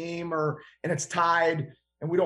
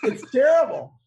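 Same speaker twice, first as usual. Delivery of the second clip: louder and higher, punching "terrible"; emphatic disgust; 7 semitones higher, 7 dB louder than usual. Real, not acted. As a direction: really lean into how bad it was. Repeats the verdict with emphasis.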